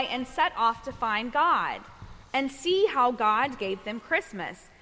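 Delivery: measured picture-book storytelling; reading to children. A narrator's reading. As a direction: read a bedtime story to little ones, giving each line room.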